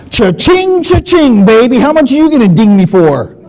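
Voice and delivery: mock greedy cash-register glee; playful money-grabbing gloat; greedy cha-ching. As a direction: gleefully rub your hands over the money. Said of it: "I didn't say it like that".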